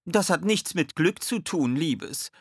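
high, lifted happy voice; beaming joy. A narrator's reading. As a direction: chime in overjoyed. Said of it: "mischte sich Sally freudestrahlend ein".

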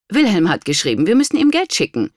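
high, excited demand; breaking the news in a rush; urgent announcement. A narrator's reading. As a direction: blurt it out, pitch climbing. Wife bursts in demanding money.

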